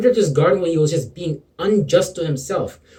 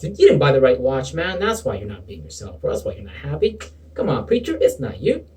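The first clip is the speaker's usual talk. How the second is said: sarcastic. Acted. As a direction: fake comfort, dripping with irony. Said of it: "I hope you detected that sarcasm in my voice".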